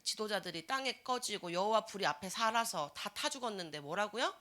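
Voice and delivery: usual speaking voice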